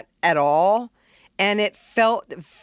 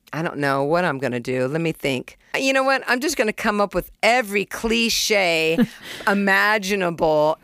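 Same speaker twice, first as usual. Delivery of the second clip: weird little voice. Retold or imitated. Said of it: "I sing in this weird little voice".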